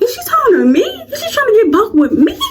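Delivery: high, giggling mock outrage; laughing disbelief. Telling friends about the school fight, laughing. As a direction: crack up retelling the challenge.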